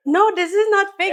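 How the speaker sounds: put-on Valley Girl accent. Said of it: "the fake, like, American Valley Girl accent".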